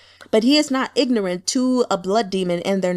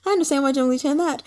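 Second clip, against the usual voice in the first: fast mock realization; 4 semitones higher, faster than usual. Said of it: "Just everything was like".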